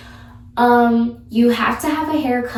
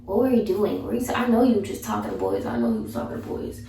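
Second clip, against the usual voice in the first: put-on jealous boyfriend; 3 semitones lower, 4 dB quieter than usual. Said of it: "he's like".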